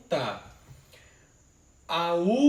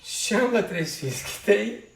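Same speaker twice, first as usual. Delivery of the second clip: verse read aloud; 3 semitones higher, 8 dB louder than usual. Shown as a demonstration. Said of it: "reading a verse of the poem".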